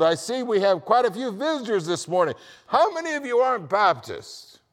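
high, loud pulpit bellow; bellowing pastor. Retold or imitated. Pastor addressing visitors at the start of service, bellowing. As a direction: bellow it out over the whole congregation. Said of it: "the pastor bellowed".

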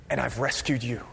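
hushed, low resolution; God reassuring. Acted. God to his rescued people, quiet reassurance. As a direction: drop soft and low after the build. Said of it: "It's God saying".

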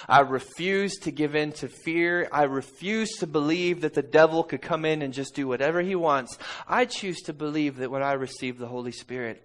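loud, full-force preaching; forceful declaration. Real, not acted. Father refusing to give in to fear, forceful declaration. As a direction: proclaim it with defiant conviction, loudly.

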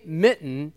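"mitten" as mi'n, a catch replacing the t; "mitten" with glottal stop. Shown as a demonstration. Showing the class the little stop, "mitten" as mi'n. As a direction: say "mitten" with the air stopped mid-word. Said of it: "you hear that little stop in the middle of the word".

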